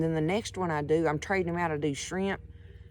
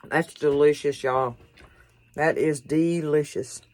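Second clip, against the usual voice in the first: louder, savoring delight; louder, slowed savoring praise; raving about food; 8 dB louder than usual. Real, not acted. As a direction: rave about the first bite. Tastes the kebab, raves.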